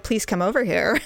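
laughing while quoting the look; laughing mimic. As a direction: quote it through a laugh. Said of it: "you had a look like".

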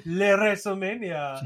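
put-on light French accent on Le WrestleMania. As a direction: say it like a Frenchman, playfully. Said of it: "in a French accent".

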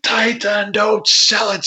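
imitating the referee's hushed order; referee's urgent instruction. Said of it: "he's like".

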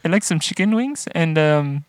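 hesitant impression of a friend ordering; Andrew. Host imitating his friend ordering wings, hesitant mock voice. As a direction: lightly mimic a friend umming through an order. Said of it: "continuing as Andrew".

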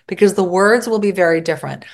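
usual speaking voice

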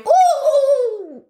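high, loud drawn-out "Oh!"; crone's call. Pretend. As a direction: beckon like a squinting crone. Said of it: "By going".

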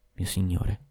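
soft murmur of Mio signore into his ear; a lover murmuring into his ear. A narrator's reading. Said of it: "mormorò all'orecchio".

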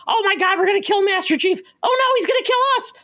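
very high squeaky little alien voice; panicky grunt creature. Acted. Co-host imitating Halo grunts' weird dialogue, squeaky mock panic. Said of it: "they talk a lot. They go".

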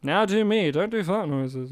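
imitation with all life removed from the voice; deadpan copy of a friend, lifeless; flat impression. Host imitating his co-host with all the life removed from his voice. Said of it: "I removed all life from my voice".

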